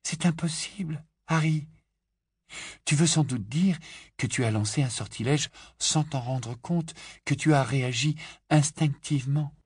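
Hermione gently correcting Harry. A narrator's reading. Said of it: "avec douceur".

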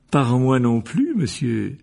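voix plus forte et lente, servile; obséquieux. Acted. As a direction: en s'inclinant très bas. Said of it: "en s'inclinant profondément". (ton servile de courtisan)

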